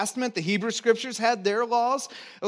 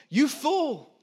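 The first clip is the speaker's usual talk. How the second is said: mock insult; 7 semitones higher than usual. Quoting an insult.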